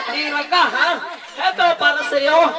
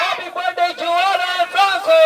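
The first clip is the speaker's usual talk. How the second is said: raised-pitch announcer call; birthday cheer; 4 semitones higher than usual. Real, not acted. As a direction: lead the room in greeting. Host leads birthday cheer. (pasigaw na pagbati)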